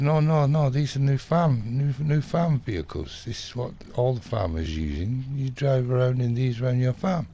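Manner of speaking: high, protesting mock sales pitch; insistent salesman. Dealer pushing farm vehicles on a customer, insistent. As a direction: imitate a dealer brushing off objections.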